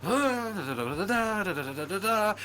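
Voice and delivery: high, sing-song fake Russian syllables, laughing; playful da-da Russian-sounding gibberish; mock Russian babble. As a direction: imitate Russian as a musical language. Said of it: "It's like".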